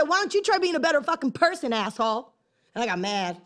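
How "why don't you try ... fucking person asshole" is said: retold insult. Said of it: "and I said".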